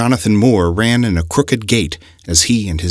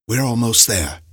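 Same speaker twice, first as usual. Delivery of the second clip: calmly; 4 semitones higher than usual. A narrator's reading. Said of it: "he told him calmly".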